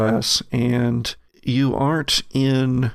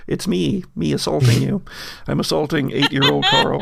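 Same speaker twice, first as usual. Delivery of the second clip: amused, quicker, breaking into laughter; laughing; faster than usual. Real, not acted. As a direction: say it through a laugh at the absurdity. Game master laughs at the absurdity.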